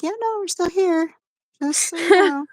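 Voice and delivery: high, sassy back voice; talking back voice. Pretend. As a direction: voice the sore back cheekily. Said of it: "my back was like".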